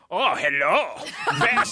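put-on old-movie comic German accent; super broad stage-German. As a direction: ham up a 1950s German accent. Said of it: "super broad nineteen fifty-two style German accent".

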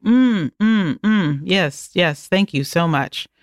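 imitating polite fake appreciation; fake approval. Client faking thanks in the makeup chair, mock-appreciative. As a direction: put on appreciative hums, then polite thanks. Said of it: "I do that fake".

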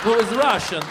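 hammy Russian-accented celebrity impression; punchy mock-Russian star impersonation; Christopher Walken. Shown as a demonstration. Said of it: "starting to sound like Christopher Walken".

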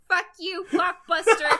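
high, mock-angry outburst; hammed-up defiant curse; Nightwing. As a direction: throw it out like a petulant hero. Acted Nightwing cursing the store.

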